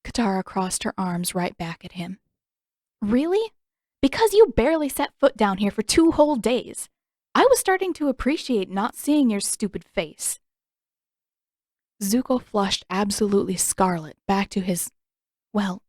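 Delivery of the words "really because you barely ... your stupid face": high, scornful, mocking him with each word; sarcastic taunt. A narrator's reading. Katara taunting the prince through the cell bars, scornful. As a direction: sneer it right in his face.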